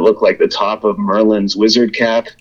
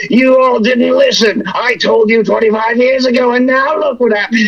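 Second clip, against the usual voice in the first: smug know-it-all; 12 semitones higher than usual. Retold or imitated. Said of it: "There is always that person who's like".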